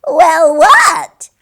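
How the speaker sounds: high, loud "Well, what?"; sly creature reply. A narrator's reading. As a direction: play innocent, cackly. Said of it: "replied the small creature".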